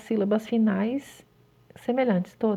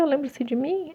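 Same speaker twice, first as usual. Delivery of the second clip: put-on higher-pitched child's question as Pedro; Pedro asking; 5 semitones higher than usual. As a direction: ask it lightly as little Pedro. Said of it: "É ele perguntando, é o Pedro". (imitando o Pedro perguntando)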